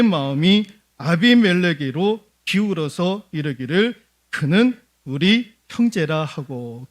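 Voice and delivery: loud, measured Bible reading to the congregation; scripture reading. Acted. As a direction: declaim the verse from the pulpit. Reads scripture aloud in sermon.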